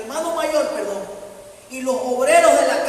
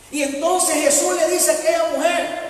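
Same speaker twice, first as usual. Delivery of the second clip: preaching shout; 4 semitones higher, 5 dB louder than usual. Real, not acted. Preaching at full force.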